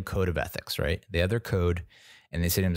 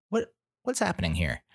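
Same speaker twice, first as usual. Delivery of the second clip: pitched way up in disbelief; incredulous; 10 semitones higher than usual. Real, not acted. Ranting about the car thieves, high incredulous outburst. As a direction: shoot up high in outrage.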